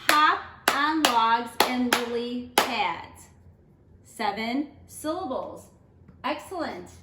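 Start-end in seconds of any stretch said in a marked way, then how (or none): 0.1-3.3 slow, each syllable given its own beat; teacher clapping a haiku line; clapped out syllable by syllable. Shown as a demonstration. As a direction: clap along with each syllable. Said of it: "We have".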